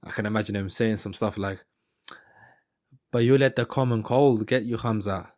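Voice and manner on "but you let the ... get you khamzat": put-on South African accent. Fighter trash-talks Khamzat about his cold, attempted South African accent. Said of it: "he's got that strong South African accent".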